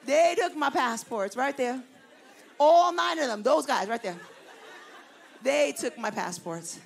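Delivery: emphatic retold accusation; indignant accusation. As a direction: point them out firmly. Pointing out the police.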